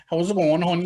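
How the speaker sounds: hammed-up Wexford local accent; broad Wexford accent. Shown as a demonstration. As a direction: call it out in thick Wexford Irish. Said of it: "I don't talk like that anymore".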